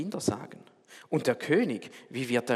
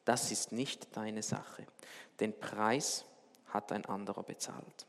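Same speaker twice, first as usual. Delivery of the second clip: sanft beschwichtigend; 3 semitones lower, 6 dB quieter than usual. Retold or imitated. König antwortet Tom sanft.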